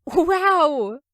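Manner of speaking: very high, loud wow; high thrilled exclamation; amazed wow. A narrator's reading. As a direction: burst out in delight. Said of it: "Toga's eyes sparkle".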